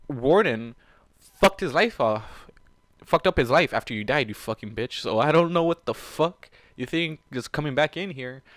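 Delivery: loud, heated scolding; angry rant. Real, not acted. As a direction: chew her out. Ranting at the character.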